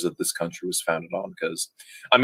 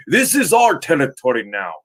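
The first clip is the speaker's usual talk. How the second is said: bad Russian accent; 5 semitones higher than usual. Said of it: "That was a terrible Russian accent".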